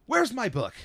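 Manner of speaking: imitated outburst. Guessing how the actor went off over a missing prop, mock outburst. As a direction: go off like a frantic actor, for show. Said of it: "Please tell me he went off".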